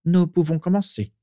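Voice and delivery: lifted, decisive dark lord; Voldemort voice. A narrator's reading. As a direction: announce the start with authority. Voldemort opening meeting.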